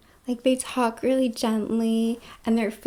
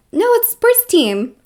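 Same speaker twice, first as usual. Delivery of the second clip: mock correction; 7 semitones higher, 8 dB louder than usual. Acted reply in a quoted dialogue.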